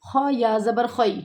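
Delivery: خیر with a خی glide, not خے; slow خ then زبر خی; correct خیر. Shown as a demonstration. Teacher spells out خیر letter by letter. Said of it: "خے کی آواز یہاں پہ نہیں آنی چاہیے".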